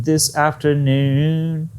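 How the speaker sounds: "This afternoon" drawn out slowly; demonstrated intonation. Shown as a demonstration. Teacher isolates the intonation, "afternoon" slowly drawn out. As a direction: stretch "afternoon" out, especially the last syllable. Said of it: "did you hear my intonation".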